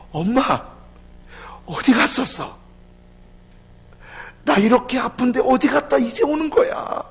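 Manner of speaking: put-on high, loud child's complaint; upset child. Sick son reproaches his mother, loud and high. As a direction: wail it like a hurt little boy.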